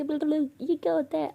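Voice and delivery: playful, as if holding back laughter; amused teasing. A narrator's reading. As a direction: tease the slip of the tongue. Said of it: "अनु इतना हंसे कहती".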